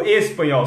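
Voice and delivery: "espanhol" starting on a clear E; E-initial espanhol. Shown as a demonstration. Teacher correcting himself, "espanhol" with a full E. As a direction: say "espanhol" with E, not I. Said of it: "sorry, eu tô colocando o I".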